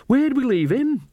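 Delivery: high, slow worried question; alarmed realisation. A narrator's reading. Nanny suddenly remembers her missing cat.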